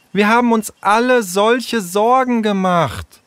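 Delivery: high, emotional cry of concern; calling out. Acted. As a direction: exclaim it high, full of pent-up worry. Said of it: "rief Tessa".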